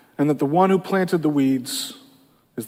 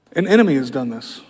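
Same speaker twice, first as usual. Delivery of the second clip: steady, unhurried lower answer; calm; 4 semitones lower than usual. Acted. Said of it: "He very calmly says".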